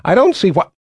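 put-on high, loud whiny girl voice; petulant young queen. A narrator's reading. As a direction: whine like a spoiled young queen. Violet protests, interrupted.

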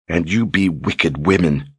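steady dangerous tone. Acted. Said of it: "suddenly steady, suddenly dangerous tone".

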